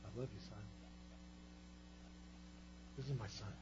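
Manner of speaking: soft, low near-whisper; hushed voice from heaven. Acted. God speaks to his son on the mountain, hushed. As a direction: breathe it gently, tender and slow. God's voice, tender.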